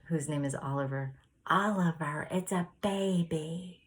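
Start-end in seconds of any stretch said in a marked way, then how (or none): 1.5-3.8 yelling to the dog. Retold or imitated. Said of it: "he yells to the dog".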